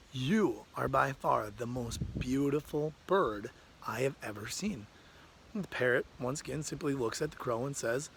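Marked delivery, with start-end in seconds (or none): 0.1-4.9 awed admiration. Acted. Crow gushes to the parrot.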